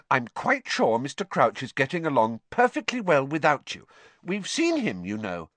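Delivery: firm, matter-of-fact assurance; firmly. Acted. Hermione setting Winky straight about Crouch, firmly. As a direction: state it firmly, no fuss. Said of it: "said Hermione firmly".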